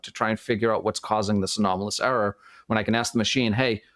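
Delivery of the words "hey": slight Boston accent. Real, not acted. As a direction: let a Boston accent slip in. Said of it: "my Boston accent's coming through now".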